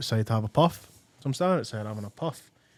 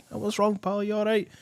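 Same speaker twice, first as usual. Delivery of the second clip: much higher retold concern; 9 semitones higher than usual. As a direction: imitate checking on a tearful pal. Acted concern at her crying.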